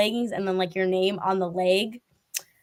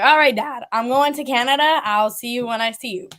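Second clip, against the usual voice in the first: breezy announcement; 3 semitones higher, 4 dB louder than usual. Pretend. Fan pretending to tell dad about leaving, mock breezy announcement. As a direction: announce it boldly to a parent, playfully.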